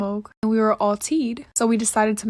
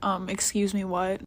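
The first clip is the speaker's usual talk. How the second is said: softer, hesitant excuse me, what; real timid excuse me; 3 semitones lower, 6 dB quieter than usual. Retold or imitated. To the Uber driver, what she really said, meek and soft. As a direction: shrink back and ask it meekly. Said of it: "I was tight".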